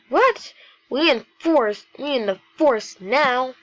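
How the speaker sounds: high, loud "what", then loud amazement; big, hammed-up surprise; astonished exclamation. Acted astonished dad in dialogue.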